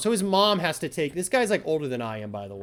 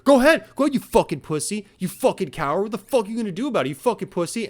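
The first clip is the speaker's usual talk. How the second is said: mock taunt; 3 semitones higher, 4 dB louder, faster than usual. Neighbor taunting him to call cops.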